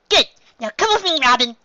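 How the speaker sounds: put-on high young reindeer doctor, earnest; high, brisk little doctor voice; Chopper. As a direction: give orders as a small, serious doctor.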